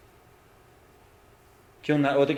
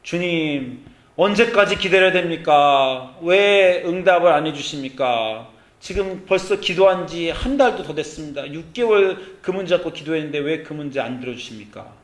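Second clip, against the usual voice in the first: 1 pleading complaint; 3 dB louder than usual. Retold or imitated. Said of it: "이 말을 갖고 나오셨어요".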